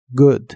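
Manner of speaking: "Good" with a short, punchy u, clipped off; short explosive good. Shown as a demonstration. Teacher modelling "Good" with a short sharp vowel. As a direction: pop out "Good" with a quick explosive oo. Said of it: "se pronuncia como una U corta y explosiva".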